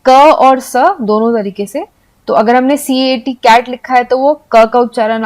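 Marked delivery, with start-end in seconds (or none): 0.0-0.8 क as "kuh", स as "suh"; two sounds of C. Shown as a demonstration. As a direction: sound out क, then स, each short. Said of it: "सी को हम use करते हैं".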